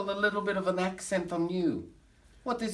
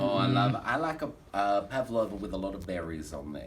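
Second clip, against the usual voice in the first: put-on German accent of a comic showman; fake German accent; 9 semitones lower than usual. Bragging to the audience in a fake German accent. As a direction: camp cabaret star with a fake German accent.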